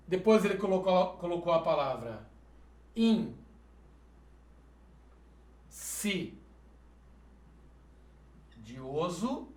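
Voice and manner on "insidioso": drawn-out whisper of insidioso, no voice; whispered word. Shown as a demonstration. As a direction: breathe the word out slowly. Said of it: "reads word breathily".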